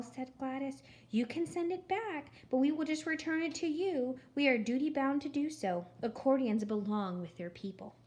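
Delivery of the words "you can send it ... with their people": high, sugary, patient voice; too sweet voice. Acted. Gladys telling Eugenia accordions return, sickly sweet. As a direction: sweetly insist it will come back. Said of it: "in her too sweet voice".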